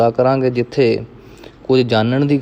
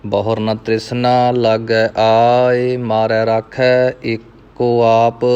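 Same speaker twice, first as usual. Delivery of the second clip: measured Gurbani recitation, evenly pitched; scripture recitation; much slower than usual. Acted. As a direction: recite verse by verse, drawing out line endings. Recites scripture between explanations. (ਸਹਿਜ ਨਾਲ ਗੁਰਬਾਣੀ ਪਾਠ)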